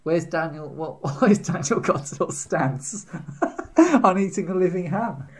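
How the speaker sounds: high, laughing mock listener; giggly imagined listeners asking; listeners' voice. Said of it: "They're thinking".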